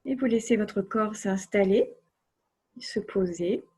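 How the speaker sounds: unhurried relaxation voice with long silences; guided relaxation. Acted. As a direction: guide the body to let go, phrase by phrase. (voix posée de relaxation guidée)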